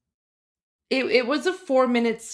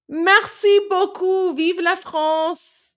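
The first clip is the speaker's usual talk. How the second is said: French phrases; 6 semitones higher, 5 dB louder, slower than usual. Shown as a demonstration. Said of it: "Mon français n'est pas très bien".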